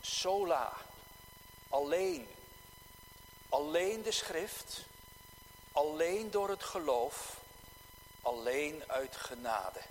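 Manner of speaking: "sola" and each "alleen" given weight, with pauses between phrases; stress on SOLA, ALLEEN. Real, not acted. Preacher setting out the Reformation's three solas, emphatic on "sola" and "alleen". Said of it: "Met de nadruk op dat sola".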